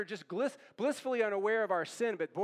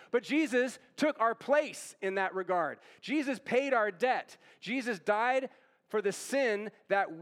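punchy, insistent sermon delivery; emphatic preaching; 2 semitones higher than usual. Real, not acted. Preacher declaring the gospel to the congregation, emphatic preaching. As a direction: proclaim the good news with conviction.

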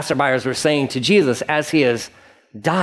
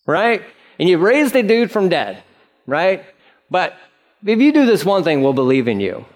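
higher-pitched mock concession; sarcastic; 4 semitones higher than usual. Preacher voicing mockers listing Jesus' miracles, sarcastic. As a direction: lightly ham up the grudging sarcasm. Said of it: "This is all sarcasm. This is like".

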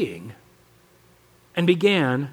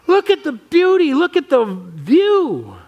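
calling out; 5 semitones higher, slower than usual. Retold or imitated. Yosemite valley calls to the onlooker, slow and ringing. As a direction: proclaim it like the valley itself calling. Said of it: "it screams at you".

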